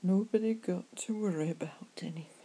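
whispered "Nobody got to worry" in a Cornish accent. Shown as a demonstration. Pub chat to a worried friend, whispered Cornish accent. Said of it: "I prefer my Cornish accent".

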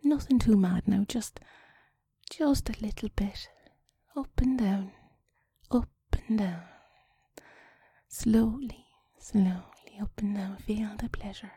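slow, whispery seductive instructions; put-on sexy talk. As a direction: guide a lover intimately, with long pauses.

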